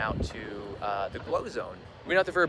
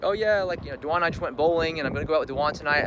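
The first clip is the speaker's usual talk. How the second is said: mock carefree fiancée; 4 semitones higher, 5 dB louder, faster than usual. Mimicking fiancée's casual plans.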